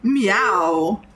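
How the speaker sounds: drawn-out playful meow; cat imitation. Gamer echoing the cat on screen, playful meow imitation. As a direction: mimic a cat's call.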